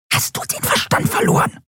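scharf geflüstertes Zischen. Acted. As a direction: zisch es leise und scharf. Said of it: "zischte Nelen". (scharf gezischt)

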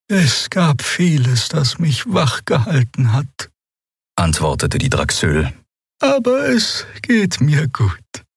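put-on slow, high voice of the old Draxül; old Draxül healer. A narrator's reading. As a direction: speak slowly like a tired ancient healer.

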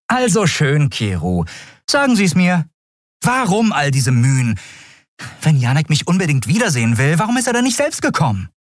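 getting angrier with each question; irritated young woman. Acted. Endriel demands answers from Keru, irritated.

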